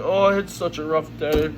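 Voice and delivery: mock self-pitying whine; imitating a boyfriend whining about his day; whiny man. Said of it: "he comes home and he's like".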